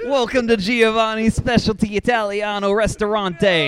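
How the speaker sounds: mock Italian restaurant host accent; cartoon Italian host welcoming guests. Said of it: "pretending to have an Italian accent".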